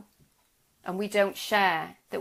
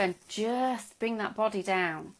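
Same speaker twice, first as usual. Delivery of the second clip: slowing, settled release; body brought down; 3 dB quieter, slower than usual. Shown as a demonstration. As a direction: let the tension drop, slowing right down. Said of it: "hear the change in my voice".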